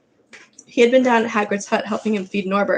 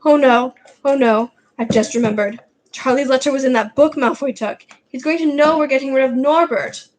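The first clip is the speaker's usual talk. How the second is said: louder, rising panic; a boy realising the plan is ruined; panicked Ron; 4 semitones higher, 3 dB louder than usual. Acted. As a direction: blurt it out in dawning horror.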